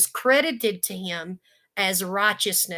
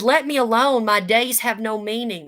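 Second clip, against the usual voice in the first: louder, pleading cry; anguished cry; 5 dB louder than usual. Acted. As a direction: push God away with the words. Job crying out to God.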